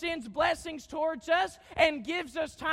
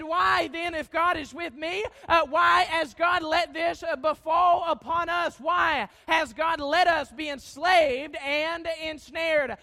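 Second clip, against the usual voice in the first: louder, whiny pouting complaint; 3 dB louder than usual. Retold or imitated. Gideon pouting at the angel, loud whiny complaint. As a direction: complain like a sulking man to God. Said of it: "he began to pout".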